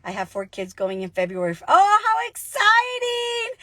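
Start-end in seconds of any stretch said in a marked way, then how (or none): 1.7-3.6 gushing excitement. Real, not acted. Reacting to a viewer comment.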